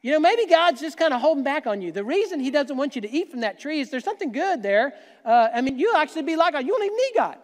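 rising, coaxing serpent voice; lightly voiced tempter snake; tempting snake. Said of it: "when the snake says".

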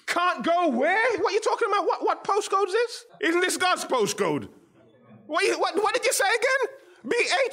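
high, laughing mock disbelief. Preacher laughing off the claim that some can't come there, high and incredulous. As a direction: scoff through laughter at the idea of being barred. Preacher mocks a ban on postcodes.

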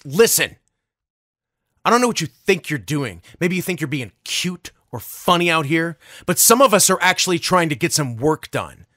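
retold angry telling-off, mildly heated; imitating an irritated man's rebuke; acted indignant scolding. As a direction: lecture someone like a fed-up coworker.

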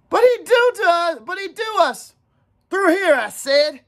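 put-on high, urgent boyish yells; excited hunt shouting. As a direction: call out in alarm to the hunters. Boys shouting during boar hunt.

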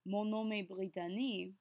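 Brittany said the French way, "bree-tah-NEE"; smooth French-accented Brittany, flowing from Mon nom est. Shown as a demonstration. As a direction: give the name Brittany a French accent, all syllables sounded. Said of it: "say your name with a French accent".

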